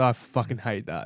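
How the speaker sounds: acted under-breath whisper. Retelling how a teammate reacts to his nickname: imitating whispering under breath. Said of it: "he just whispers under his breath".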